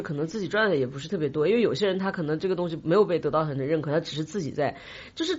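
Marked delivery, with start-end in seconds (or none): none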